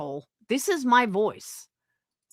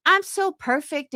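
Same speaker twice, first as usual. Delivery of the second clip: raised-pitch mock bragging; mock self-praise; 7 semitones higher than usual. Denying she acts perfect, mock self-praise. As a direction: mimic someone who thinks they are flawless. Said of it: "I don't act like that".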